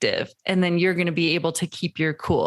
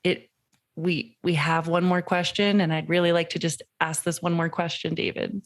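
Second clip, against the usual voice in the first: gentle ask. Shown as a demonstration. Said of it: "have me say".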